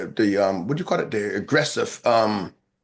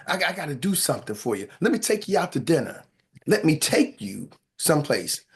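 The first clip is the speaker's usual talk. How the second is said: sexy voice; 4 semitones lower than usual. Pretend. Man offering to take you to dinner, sexy voice. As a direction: play the smooth suitor, gently hammed-up. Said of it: "put my sexy voice on".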